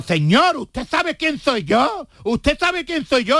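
high, slow, self-important general; pompous general. Acted. General asking the soldier if he knows who he is, hammed-up. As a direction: puff up the general's pride. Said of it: "le dijo el general".

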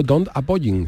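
don't appoying said with a laugh, Spanish-style English; made-up English word. Retold or imitated. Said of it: "y le dijo".

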